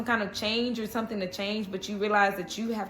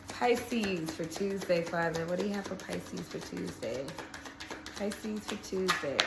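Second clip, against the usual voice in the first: slow, softly intoned question to Father; hushed invocation; 3 semitones lower, 6 dB quieter than usual. Real, not acted. Reader asking Father for the Pisces message, hushed invocation. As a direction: let it trail softer, as if listening.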